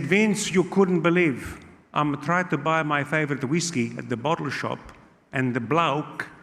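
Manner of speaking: imitating an Italian-accented uncle. Uncle phoning his nephew from the bottle shop, Italian accent. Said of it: "phone call from my uncle Gino".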